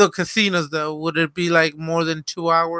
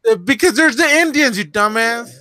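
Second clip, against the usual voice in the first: higher-pitched scolding comeback; exasperated retort; 5 semitones higher, 3 dB louder than usual. Real, not acted. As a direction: point out the obvious, pitched up. Mock-scolding the others' ignorance.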